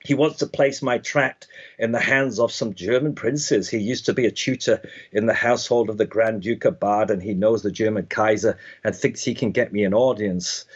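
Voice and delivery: put-on a light English accent for the quoted letter. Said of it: "I'll do it in my English accent now".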